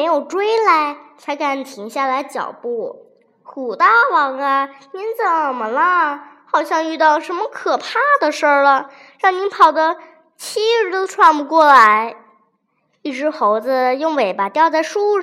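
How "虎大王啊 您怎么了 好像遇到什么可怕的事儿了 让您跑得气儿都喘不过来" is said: curious question. Acted. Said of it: "就好奇地问".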